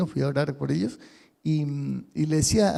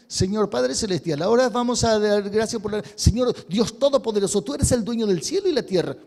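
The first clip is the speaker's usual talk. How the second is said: rote prayer formula; 3 semitones higher, 3 dB louder than usual. Retold or imitated. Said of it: "todas las veces".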